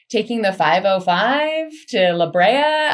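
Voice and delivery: put-on drawn-out Californian skit accent; mock Californian upspeak accent. Nod to SNL's Californians skit, mock Californian accent. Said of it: "Google S N L's, uh, Californians skit".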